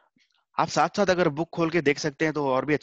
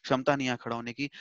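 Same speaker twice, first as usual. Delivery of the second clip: soft pleading; 5 dB quieter than usual. Retold or imitated. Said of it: "please type से ऐसे बोल रहा है अभी रोते-रोते".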